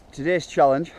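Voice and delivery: breathless after the climb; puffing between words; out of breath. Real, not acted. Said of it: "excuse me, I'm out of breath".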